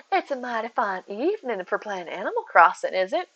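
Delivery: lightly hammed Southern belle; polite Southern small talk with a lilt; a put-on Southern hostess voice; Southern accent. Shown as a demonstration.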